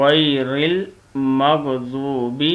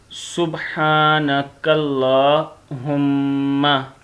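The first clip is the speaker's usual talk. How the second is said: slow recitation; 4 dB louder, much slower than usual. Shown as a demonstration. Teacher recites sana.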